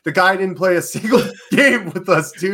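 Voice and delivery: high, loud protest breaking into laughter; incredulous laughing. Real, not acted. Co-host mocking the team's thank-you post, incredulous laughing. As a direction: laugh through your loud, baffled complaint.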